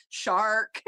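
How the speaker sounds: imitating the Welsh way, "Shark." with no R and a rising end; Welsh accent. Showing how the Welsh lawyer says it in court, mock Welsh accent. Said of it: "the way that the Welsh say it".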